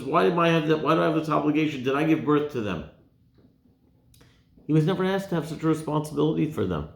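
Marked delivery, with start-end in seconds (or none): 0.0-2.8 raised, rushed protest, a touch frantic; worked-up Moshe. Retold or imitated. Moshe worked up at Hashem, raised and rushing. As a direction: let him get worked up over it. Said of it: "Moshe gets so worked up and says".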